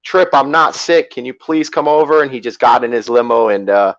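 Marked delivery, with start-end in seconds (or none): 0.0-2.2 retold yell back. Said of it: "I yelled back".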